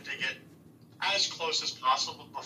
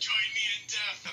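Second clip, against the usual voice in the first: overacted death scene; 7 semitones higher than usual. Fake dying.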